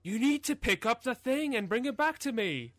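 high mock NPC nag; nagging game character. Friend mocking the nagging quest giver, high nagging voice. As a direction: whine the quest reminder like an annoying NPC.

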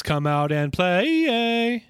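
slow, drawn-out taunt; sing-song gang taunt; taunting call. Retold or imitated. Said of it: "the Warriors reference".

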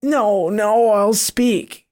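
mock terrified monster giving in; frightened scream. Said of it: "it screamed".

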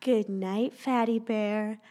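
lightly voiced little girl, slow; slow sweet girl voice. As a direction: say it slow and sweet, like a child to her teddy. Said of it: "I will not be wrong".

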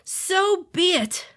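high, slow ominous demon voice; ominous demon lord. Acted. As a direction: seal the pact slowly. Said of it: "Fu Leng declared".

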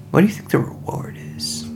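hushed whisper. Real, not acted. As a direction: whisper it to the party. Whispered aside to the party.

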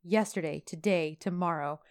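low, softened imitation of a romantic lead; dropped voice. Man close up in her face, imitated low intimate voice. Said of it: "His voice goes down, like, three octaves".

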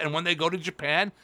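ordinary talk, nothing marked

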